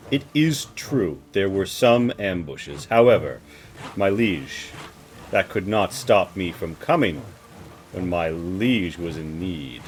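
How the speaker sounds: slow, measured noble vassal; lightly voiced, formal and deliberate; proud loyal lady. Lady assures her liege of loyalty, slow and formal.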